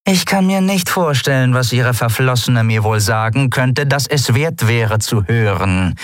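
dismissive captain; Zaylar's voice. Acted. Captain dismissing the ex-lover's message, scornful.

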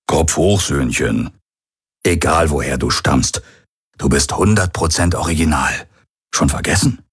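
lightly voiced gruff buddy, brisk; mild fatherly pep talk; comforting old friend. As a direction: cheer him up with a nudge.

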